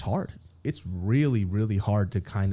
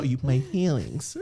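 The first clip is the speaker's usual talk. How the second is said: slow, halting, words sticking; struggling to get words out; slower than usual. Retold or imitated. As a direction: force out each word. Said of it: "I'm about to faint".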